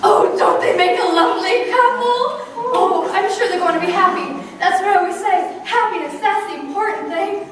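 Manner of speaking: high, fluttery gossip voice; gushing wedding guest. Acted. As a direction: gush over the bride, near tears.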